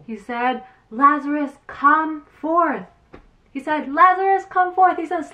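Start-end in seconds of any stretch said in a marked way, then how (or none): 0.9-2.8 calling out to the tomb, raised and commanding; loud call. Acted. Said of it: "cried with a loud voice". 3.9-5.0 much higher and louder, a full commanding cry; louder call. Acted. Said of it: "cried with a loud voice".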